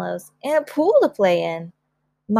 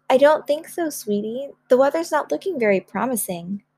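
lightly voiced mother, a little higher; gentle mother; 4 semitones higher than usual. Mother turning down a camping trip, gentle and light. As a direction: let her down gently.

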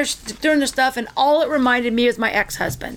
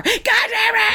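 mock scream; 10 semitones higher than usual. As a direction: belt it out like the rowdy guy at the pool. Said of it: "And he would scream again".

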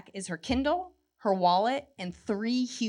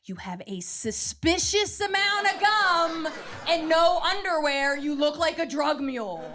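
exasperated scolding; 6 semitones higher, slower than usual. Retold or imitated. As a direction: spell it out to mom, slowly. Telling mom off at airport.

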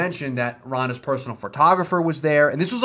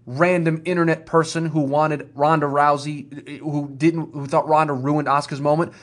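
raised, slowed-down rant at the fans; ranting yell. Real, not acted. Co-host rants at internet critics of Ronda, raised voice. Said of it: "and I'm gonna yell".

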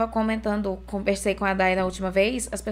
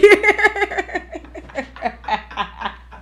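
kettle laugh; 9 semitones higher, 4 dB louder than usual. Retold or imitated. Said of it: "O meu filho ri igual uma chaleira".

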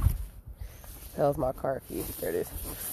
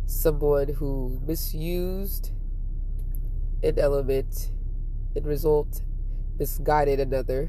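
solemn musing. Real, not acted. Vlogger describing love to viewers, solemn and halting. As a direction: weigh each phrase like improvised poetry.

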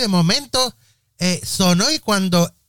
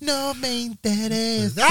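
dismissive; 5 semitones higher, 6 dB quieter, slower than usual. Acted. Choli dismisses the past.

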